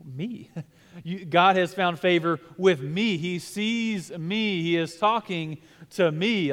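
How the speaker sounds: flattered. Retold or imitated. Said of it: "she was kind of flattered".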